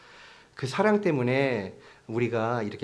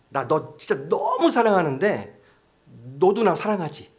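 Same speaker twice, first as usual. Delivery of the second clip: pleading for reassurance; 4 semitones higher, 4 dB louder than usual. Pretend. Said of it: "확인하고 싶어 하는 거".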